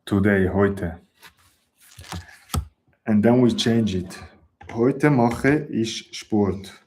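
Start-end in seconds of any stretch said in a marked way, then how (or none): 4.7-6.8 slow model sentence. Shown as a demonstration. Teacher to students, modelling word order, very slow. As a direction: spell out "Heute mache ich Sport." word by word, very slow. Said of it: "teacher modelling the new word order".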